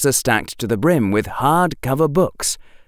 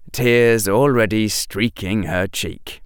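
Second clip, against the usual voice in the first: usual speaking voice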